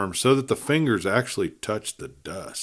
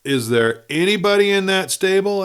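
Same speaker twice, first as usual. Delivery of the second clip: dry question; 10 semitones higher, 5 dB louder than usual. A narrator's reading. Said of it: "asked the doctor dryly".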